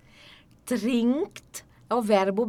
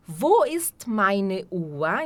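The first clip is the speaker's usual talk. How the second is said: slow demo; much slower than usual. Shown as a demonstration. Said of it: "teacher models question".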